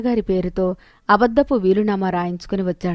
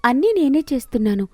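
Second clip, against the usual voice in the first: lightly voiced haughty woman, a bit higher; bossy sister-in-law; 5 semitones higher than usual. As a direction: order the junior daughter-in-law about.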